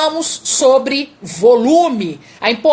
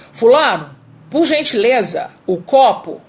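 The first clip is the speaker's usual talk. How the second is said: Fulano called out louder, rest firm; a notch louder. Shown as a demonstration. Coach raising the volume in a glass-asking exercise. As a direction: raise your voice one step for the glass. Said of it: "Agora um tom mais alto".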